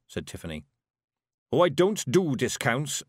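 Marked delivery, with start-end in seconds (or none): 1.5-3.0 haughty shopkeeper dwarf, higher and louder; lofty dwarf. Acted. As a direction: refuse loftily, a little raised in pitch. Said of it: "as loftily as a dwarf can manage".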